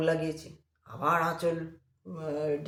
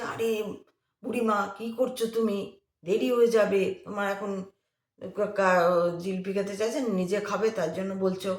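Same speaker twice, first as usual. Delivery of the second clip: scolding; 4 semitones higher, 5 dB louder than usual. Retold or imitated. Young man scolds old woman.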